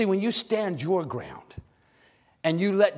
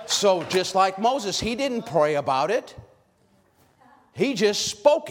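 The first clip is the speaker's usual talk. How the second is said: preaching shout; 2 semitones higher than usual. Real, not acted. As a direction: preach it out at full force.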